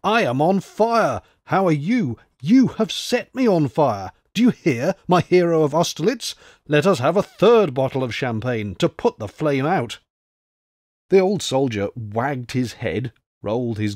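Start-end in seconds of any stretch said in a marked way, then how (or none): 0.0-10.0 put-on drunken giddy cry, higher and a bit louder; mad exhilaration. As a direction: rave like a man whose head is on fire. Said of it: "in a mad state of exhilaration".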